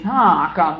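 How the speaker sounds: loud, drawn-out call to everyone; mock yell of a three-year-old; imitated child's yell. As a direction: call out like a child summoning an audience. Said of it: "she would be yelling out".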